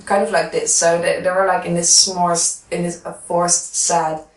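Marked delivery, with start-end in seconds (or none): 0.0-0.7 lips pursed round a pencil; pencil between lips. Shown as a demonstration. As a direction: talk with a pencil held in the lips. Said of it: "have the pencil between their lips".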